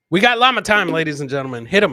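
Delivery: hype announcement. Real, not acted. Host introducing llama time to viewers, hype shout. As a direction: call it out like a ring announcer.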